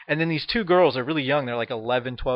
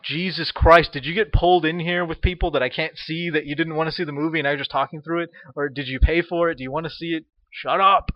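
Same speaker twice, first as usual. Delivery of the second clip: exasperated rant; 2 semitones higher than usual. Retold or imitated. Ranting at the girls.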